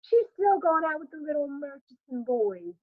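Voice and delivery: high cooing neighbor voice; emphatic coo. A narrator's reading. Johnson cooing about Beneatha's outings, a high coo. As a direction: coo over the news emphatically. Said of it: "an emphatic coo".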